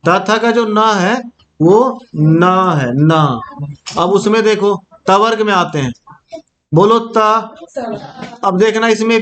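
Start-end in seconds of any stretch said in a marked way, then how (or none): 2.9-3.4 न with the tongue touching the teeth; lower, held-out dental न. Shown as a demonstration. Teacher contrasting it with ण, careful dental demonstration. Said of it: "इसको दांत के पास स्पर्श करके उच्चारण होता है".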